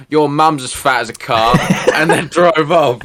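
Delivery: laughing comeback. Retold or imitated.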